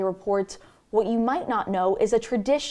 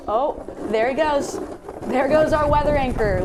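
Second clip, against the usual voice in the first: rising, louder excited cheer; 4 semitones higher, 3 dB louder than usual. Real, not acted. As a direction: cheer on a colleague sledding. Anchor watches reporter sled live.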